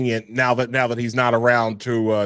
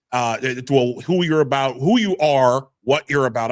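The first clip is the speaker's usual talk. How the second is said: real stumbling restarts; tongue-tied, restarting phrases; stuttering. Real, not acted. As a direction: fumble and correct the wording as you go. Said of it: "I'm stuttering so much".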